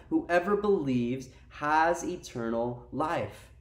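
slow, deliberate delivery, word by word; slow emphatic repeat. Real, not acted. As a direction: let each word of the verse land slowly.

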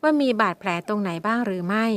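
ordinary delivery, nothing marked

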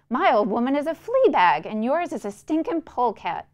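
loud, high furious insult; angry shouting. Acted. Boy insulting Mister Shiflett's mother before jumping out, angry shout. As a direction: spit the insult out at full voice. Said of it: "he cried".

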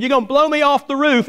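very high, stubborn holler; mock-indignant old man; acted indignant shout.

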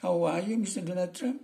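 put-on high, loud Madurese-accented greeting; hammed-up Madurese English. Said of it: "Ngomong nih sama Donald Trump".

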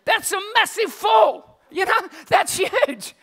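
loud, high and slow, marveling; slow amazed exclaim. Real, not acted. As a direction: lean on how huge it is. Preacher marveling at Peter's fall.

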